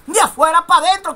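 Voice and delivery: de afuera para adentro rushed out fast; quick follow-up. Shown as a demonstration. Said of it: "vinieron de dónde". (de afuera para adentro rápido)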